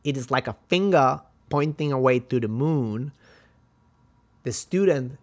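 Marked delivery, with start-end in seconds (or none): 0.0-3.1 lightly imitated martial arts master, louder; hint of an accented kung fu teacher; Bruce Lee. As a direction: imitate a film master instructing a student. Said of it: "when he said".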